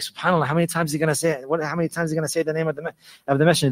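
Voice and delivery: quick, hushed mock disbelief; imitated amazement. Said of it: "completely shocked and amazed".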